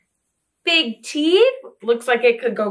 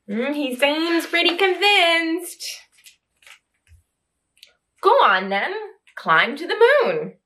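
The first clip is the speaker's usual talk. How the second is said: lively storybook reading, voices rising for questions; reading to children. Acted. Reading I Am Tiger aloud to young children, lively and animated. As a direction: read it like a bedtime picture book to little ones.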